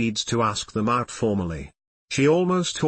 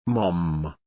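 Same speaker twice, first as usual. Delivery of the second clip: shocked; 6 semitones lower than usual. A narrator's reading. Shocked to see mother teaching.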